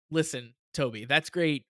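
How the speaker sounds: mock-sincere, with a pause before "for you"; damn with faint praise, pausing before "for you"; sarcastic intonation. Shown as a demonstration. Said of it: "you had to hear the intonation".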